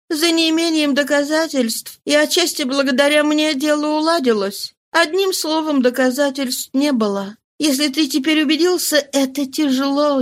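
lightly voiced consoling mistress.

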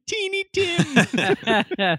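put-on thick Russian accent, drawn-out Teeny Tim. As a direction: imitate a heavy Russian accent, slow and high. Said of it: "the thick Russian accent".

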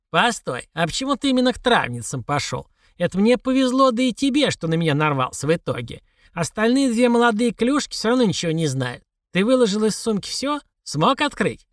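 put-on high, pressing old crone; old woman voice. A narrator's reading. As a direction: question him like a suspicious old woman. Old woman questions him.

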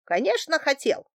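high, incredulous confirmation; surprised at naivety. A narrator's reading. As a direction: say it as if it were obvious. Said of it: "удивился моей недогадливости Салов". (удивлённо, высоко, как очевидное)

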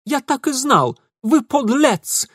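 high, loud accusing cry; indignant outburst. Acted. Ingvar bursting in, accusing Mitya. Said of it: "пришелец сбежал".

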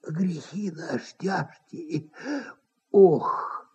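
hushed breathy sigh of a hidden man; whisper. A narrator's reading. Hidden man sighs to himself in a whisper. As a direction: whisper it as a groaning sigh from hiding. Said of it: "как будто прошептал".

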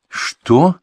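high, incredulous "Что?"; can't believe what he heard; disbelieving. A narrator's reading. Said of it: "не поверил молодой". (недоверчиво)

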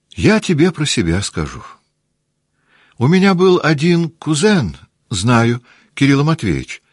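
put-on bright girl teasing her mother; girlish chatter. Наташа болтает с матерью звонким девичьим голосом.

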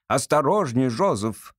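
a hint of a haughty lady, measured; measured stern order. Society lady warning her servant Joseph, measured. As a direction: warn Joseph coolly. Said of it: "всё ещё прежним резким, размеренным голосом".

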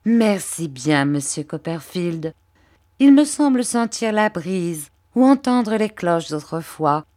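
oily, humble flattery, pitched a little up; Uriah Heep. Acted. Uriah fawning over Mr Copperfield, lightly voiced servile tone.

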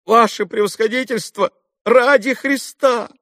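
captain stopping the doctor in fright; frightened plea. A narrator's reading. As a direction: beg for mercy in fear. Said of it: "испуганно остановил".

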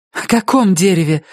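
sharp, high, angry question; angry blurt. Acted. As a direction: snap it out almost in anger. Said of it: "выпалила Рози чуть ли не со злостью". (почти со злостью)

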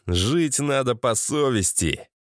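hard voice. Acted. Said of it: "От интонации этого жёсткого голоса".

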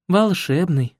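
wistful sigh. A narrator's reading. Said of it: "вздохнула Катя".

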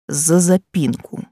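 slow, sly smiling tease; sly smile. Acted. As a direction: say it slyly with a smile. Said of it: "лукаво улыбается". (лукаво, с улыбкой)

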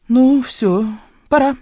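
high, cracking farewell, holding back tears; words catch as she says goodbye; fighting tears at the goodbye; voice breaking. A narrator's reading. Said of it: "срывающимся голосом произнесла я".

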